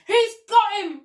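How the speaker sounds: high, loud excited cry; monkey crying out in triumph. Acted. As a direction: blurt it out thrilled. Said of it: "cried the monkey".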